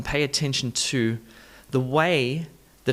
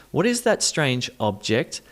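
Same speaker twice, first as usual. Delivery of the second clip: OB-ject with a full O; first-syllable stress. Shown as a demonstration. Teacher looks at the schwa, stressing OB in "object". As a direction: hit OB in "object". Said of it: "look at it with this schwa sound".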